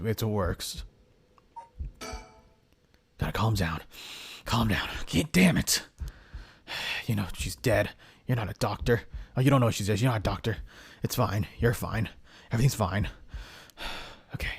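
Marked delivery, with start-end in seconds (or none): 3.2-14.5 startled young hero, lightly voiced. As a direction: play the hero puzzled and uneasy.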